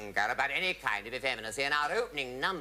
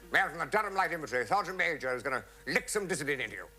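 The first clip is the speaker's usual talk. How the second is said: lightly acted officer, higher and quick; officer's announcement; 5 semitones higher, faster than usual. Officer warning the troupe on parade, lightly acted announcement. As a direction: rattle off a mock parade announcement.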